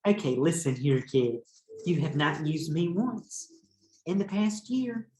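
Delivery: lightly voiced sulky crayon reading her letter; a hint of an aggrieved little crayon; pink crayon's letter. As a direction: read it as a hurt, pleading crayon. Teacher reads pink crayon's letter.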